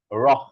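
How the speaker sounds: রহ with air released after the flap; flapped র followed by a puff of h; aspirated flap R. Shown as a demonstration. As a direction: breathe out hard on the end of রহ. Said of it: "কেবল বাতাসটা আমরা বের করছি".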